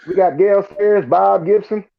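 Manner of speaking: high, excited hype over the list; mock excited. Reading the Nebraska list to friend, mock excited.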